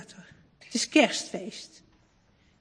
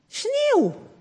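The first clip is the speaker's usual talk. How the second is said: put-on high surprised little boy calling out snow; excited boy; 12 semitones higher than usual. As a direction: spot the first snowflakes, amazed. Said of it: "zegt Tim".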